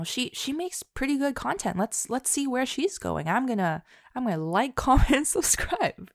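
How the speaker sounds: high, light mock viewer voice; lightly voiced fan sizing up the channel; a hint of an eager new subscriber; imitating viewers. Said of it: "you guys saw my work and you thought".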